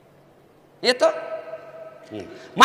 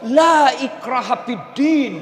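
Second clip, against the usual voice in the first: defiant retort; slower than usual. Retold or imitated. Mocking someone misusing the verse.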